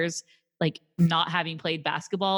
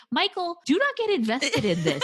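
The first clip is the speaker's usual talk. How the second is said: a higher, laughing warning to Michael; laughing plea; 8 semitones higher than usual. Retold or imitated. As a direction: beg him through laughter. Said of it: "I'm thinking".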